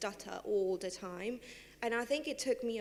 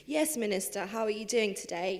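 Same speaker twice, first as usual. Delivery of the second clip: lightly polished posh office accent; posh code-switched voice; 4 dB louder than usual. Shown as a demonstration. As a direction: put on a hint of formal civil-servant English. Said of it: "I'm talking different accents. I'm code switching".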